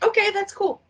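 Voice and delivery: squeaky high okay; high squeaky agreement; mock horse voice. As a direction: pitch it way up, like a dumb horse agreeing. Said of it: "everybody's like".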